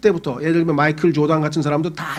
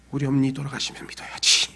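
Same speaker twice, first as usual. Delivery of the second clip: soft, deflated aside to himself; resigned murmur; 3 semitones lower, 8 dB quieter than usual. Retold or imitated. Son decides to wait for his mother, soft resigned murmur. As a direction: give up quietly, postponing it.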